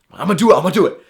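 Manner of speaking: psyching himself up. Retold or imitated. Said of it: "I'm psyching myself".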